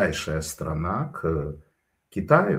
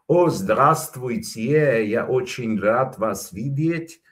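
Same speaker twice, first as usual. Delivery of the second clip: slow, drawn-out French-accented greeting; a light French lilt; mock French accent; 3 semitones higher, slower than usual. Shown as a demonstration. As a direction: put on a French accent, stretching the words. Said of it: "Это не французский вот это".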